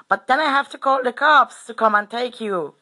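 high, loud warning; mock-angry threat, pitched well up; imitating angry-sounding man. Old bloke warning he will call the cops, angry-sounding. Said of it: "he sounded really angry to me".

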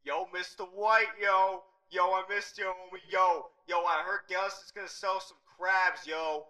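Jesse Pinkman impression. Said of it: "People know who Walter White is".

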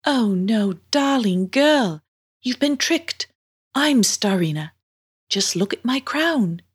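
lightly voiced mermaid, pitch lilting up; concerned mermaid. Mermaid tells girl she was tricked, concerned. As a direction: break it to her with concern, lilting.

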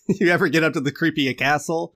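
a clumsy, hammed-up Scottish accent pitched a little high; bad Scottish accent. Asking again about the creepy castle, in a bad Scottish accent. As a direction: keep up the mock Scottish accent on the question. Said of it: "That's a terrible Scottish accent".

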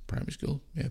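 breathy echo of "Primary school"; whispered. Real, not acted.

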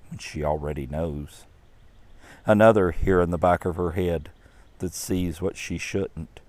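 measured, unhurried poem reading with voiced characters; story narration. A narrator's reading. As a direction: read it like a gentle Mother's Day tale. Reads the poem aloud.

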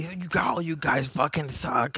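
high-pitched mimicry of a whining trash talker; mocking imitation.

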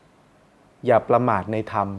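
each word drawn out, very slow and weighty; very slow quote. Retold or imitated. Quoting the Buddha's final teaching to listeners, very slow. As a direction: lay the Buddha's last words down slowly.

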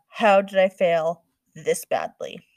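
loud, slow exasperated lament; despairing mom. A narrator's reading. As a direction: throw up your hands in despair.

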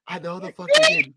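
loud, squeaky outraged repeat; high-pitched disbelief. Retold or imitated. Host reacting to the villain's silly defeat, high-pitched outraged disbelief.

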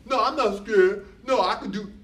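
high, loud little voice of denial. Acted. Inner voice insisting to its owner it can cope, little high voice. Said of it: "a little voice says".

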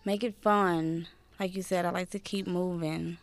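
slow, soft seductive date voice; lightly put-on seductive murmur; sexy rendezvous voice. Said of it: "you gotta give the sexy rendezvous voice".

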